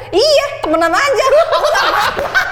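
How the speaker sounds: very high, laughing self-imitation; hammed-up high voice, breaking into laughter; mock cheerful denial. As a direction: squeak out a laughing insistence that all is fine. Mimics own denial to mother.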